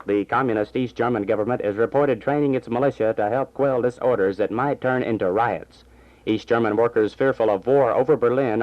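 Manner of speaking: brisk radio news delivery; news read. Acted. Small-town radio announcer reading the afternoon news. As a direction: read the bulletins like a station announcer.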